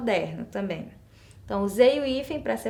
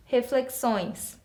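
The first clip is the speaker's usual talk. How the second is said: reflexões stretched out slowly; careful slow teacher read; slow demo; much slower than usual. Shown as a demonstration. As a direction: spell out reflexões slowly, nasal õe. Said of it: "um som nasal em cima do O".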